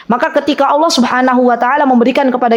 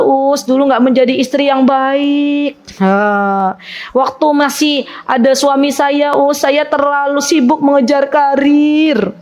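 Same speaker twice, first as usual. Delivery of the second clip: mock sobbing confession; 2 semitones higher than usual. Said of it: "udah nangis sesenggukan".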